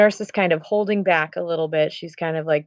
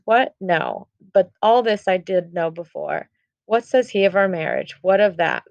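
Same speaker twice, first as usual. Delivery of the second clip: frustrated; 3 semitones higher than usual. Retold or imitated. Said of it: "getting very frustrated".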